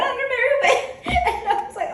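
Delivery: giggling while telling how she skipped off; laughing. Real, not acted. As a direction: laugh your way through the line. Amused retelling of niece leaving.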